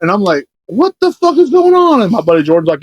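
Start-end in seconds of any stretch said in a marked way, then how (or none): 0.7-2.0 high, slow, drawn-out mock alarm; bewildered. Storyteller acting out his reaction to the crying man, bewildered. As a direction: stretch it out high in disbelief. Acted bewilderment after the slap.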